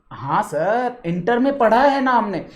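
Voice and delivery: lightly voiced student reply, drawn-out "हाँ sir"; students answering. Students answering teacher's question about studying costing, lightly mimicked. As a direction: answer like a pupil, lightly put on.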